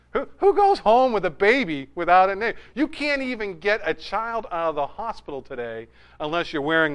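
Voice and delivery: baffled, animated protest; can't-believe-it outburst; incredulous. Retold or imitated. Acting out his incredulous reaction to mom.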